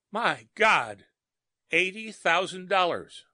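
high, loud despairing wail; anguished cry. A narrator's reading. Sobbing outburst.

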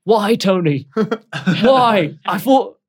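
high, loud sobbing plea, voice cracking; crying plea. Acted. Drunk crew member sobbing at Tony. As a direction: beg through tears, betrayed. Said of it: "Grode is looking at you crying now".

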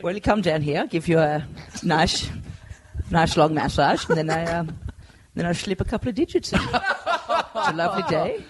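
a mild fake Dutch accent pitching a massage. Comedian asked by friends to pitch massage in a Dutch accent, a light fake Dutch accent. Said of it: "give us a little spiel for your massage business with a Dutch accent".

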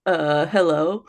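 slow imitation of her friend's voice; mimicking co-host's voice. Shown as a demonstration. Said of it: "try and mimic my voice".

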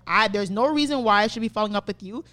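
emphatic re-enacted telling-off; pissed. Fed-up customer demanding a tire or a refund, pissed. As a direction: lay down the ultimatum, fed up. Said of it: "and I'm pissed".

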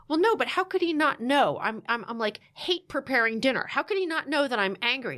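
mildly worked-up, retold protest; a touch of exasperated pleading; indignant protest. Wife defends herself to therapist, mildly indignant.

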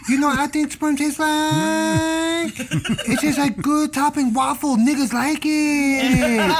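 high, slow put-on Asian accent; hammed-up Asian accent; mock Asian accent. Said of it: "using your best Asian accent".

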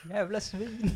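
put-on the storyteller repeats the old woman's insult to the taxi driver; mimicking old hag. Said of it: "gamkärring".

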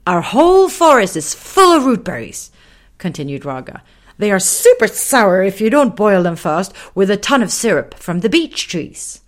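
high, loud lion explaining; chatty little lion. Acted. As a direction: chatter on about berries. Raga explains rootberries.

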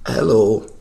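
lightly voiced old man, slow; a hint of a doddery old caller; old guy. Prank caller ordering a taxi as an old man, lightly aged voice. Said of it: "pretend to be, like, an old guy".

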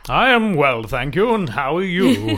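lightly mock-formal, affected reply; put-on voice. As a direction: exchange pleasantries in a silly put-on voice. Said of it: "I don't know why I did this voice".

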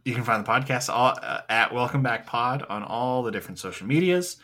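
upbeat YouTuber outro voice. Pretend. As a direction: YouTuber voice, hyped sign-off. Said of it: "Do you like this YouTuber voice I'm doing?".

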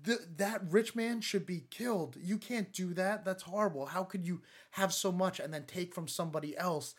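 mock-outraged protest; a touch of royal fury; retold outrage. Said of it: "David's, like, outraged".

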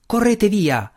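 high, loud cry to flee; shouted warning. A narrator's reading. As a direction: shout at them to get away. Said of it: "gridò il guardiano".

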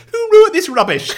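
mock despair at the script; imitating exasperated presenter. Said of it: "then goes".

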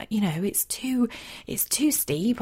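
whispered, scared horse; hushed voicing of a frightened horse; horse whispering. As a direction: whisper it like a nervous horse at the top of the hill. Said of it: "it was almost like he was saying".

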